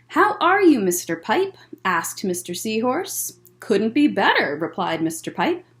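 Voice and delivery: gentle storytime read-aloud; picture book voice for kids; reading to children. Acted.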